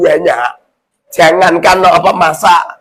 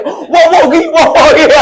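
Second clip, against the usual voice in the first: high, louder mock of a man swearing; Ustaz Salik impression; 9 semitones higher, 4 dB louder than usual. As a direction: ham up a flustered man swearing oaths. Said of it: "Ini seumpamanya Ustaz Salik".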